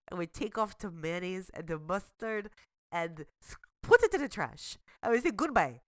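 hammed-up mock Russian accent, bossy about the trash; bad Russian accent. Sarah explains her own version in a bad Russian accent. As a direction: tell the egg off and greet the cracker in broken Russian English. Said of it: "speak in bad Russian accents".

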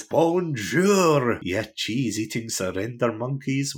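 a hint of a Scottish janitor's sneer, punched opening; Willie voice. Podcaster quoting Willie insulting the French, mock Scots sneer. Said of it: "he says".

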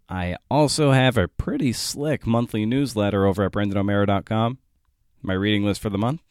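measured, deliberate sign-off read; podcast outro read. Acted. Host signs off to podcast listeners, scripted outro read. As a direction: read the show's closing plugs, unhurried.

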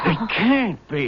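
slow tearful disbelief; crying. Acted. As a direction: choke it out in disbelief. Shock at hundred dollar bill.

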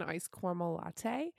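"caramel" said as "cormel" in "iced caramel latte"; joke pronunciation of caramel. Shown as a demonstration. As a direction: say "caramel" with an "or" sound, like "CORE-mel". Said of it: "I can't stop saying it like that".

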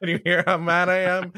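deadpan mock fury, laughing under it; flat fake anger, a laugh breaking through; monotone rage. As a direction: pretend to be furious without raising the voice. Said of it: "that monotone rage".

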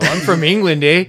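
wobbly mock-English accent; jokey, off-target English accent; bad English accent. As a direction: badly fake being from England. Continues the bad accent joke.

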